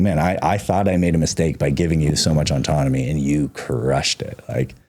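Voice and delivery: proud retold pep talk, pitch climbing; lively imitation of a proud dad's cheer; hyping him up. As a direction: build into excited praise for a kid. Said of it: "I hyped him up".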